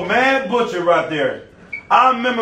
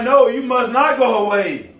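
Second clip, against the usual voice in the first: a touch of upset protest, raised and louder; mock-angry disciples; mad disciples; 9 semitones higher, 4 dB louder than usual. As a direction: plead against Jesus leaving. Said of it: "They're mad".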